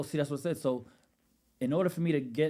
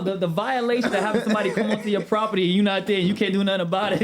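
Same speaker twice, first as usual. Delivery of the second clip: heated rant; 6 semitones higher, 8 dB louder than usual. Real, not acted. Ranting about the robbery.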